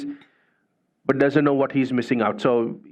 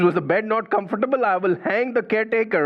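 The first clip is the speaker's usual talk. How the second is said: agitated king; 6 semitones higher, faster than usual. Retold or imitated. King threatens caretaker, agitated.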